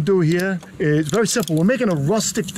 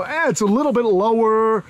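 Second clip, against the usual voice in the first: quibble like a picky onlooker, slightly higher; mock nitpicking; 4 semitones higher than usual. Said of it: "some of you that would go".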